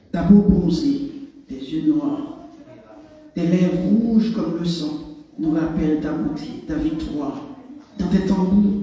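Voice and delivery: measured poetry recital, phrase by phrase; restrained, deliberate declamation; solemn poem reading. Acted. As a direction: read it as an ode, pausing after each image. Reads second poem aloud.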